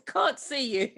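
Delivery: said through a laugh. Real, not acted. Blind guest teasing the comic, laughing. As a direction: giggle it teasingly. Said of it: "teasing while laughing".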